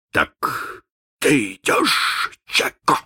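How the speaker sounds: slow, hushed, thoughtful question; pensive whisper. Acted. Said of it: "спросил он задумчиво".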